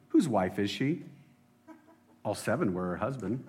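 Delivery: a snotty know-it-all telling the riddle; snotty Sadducee. Acted. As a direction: sneer through the riddle. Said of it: "It's super snotty".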